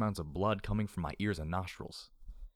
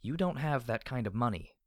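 higher-pitched, doubtful woman; Bottle Cap; 4 semitones higher than usual. Acted. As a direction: challenge the offer with a touch of doubt. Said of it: "I could hear her doubt".

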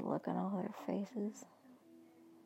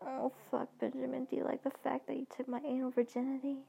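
moaning replies; 4 semitones higher than usual. Acted. She moans back to Benjamin.

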